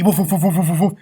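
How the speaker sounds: loud quick woofs; rapid run of woofs; dog barking. Acted. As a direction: imitate a dog barking in chase. Imitating Lucky the dog barking.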